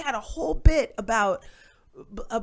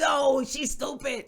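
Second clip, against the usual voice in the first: amused heckler; 5 semitones higher, slower than usual. Retold or imitated. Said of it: "two cholos in the crowd".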